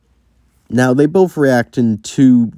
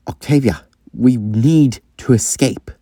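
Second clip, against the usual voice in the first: Sean. Acted. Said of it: "actually shows that he cares".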